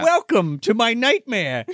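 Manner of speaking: mock ominous captor. Voicing the captor's line.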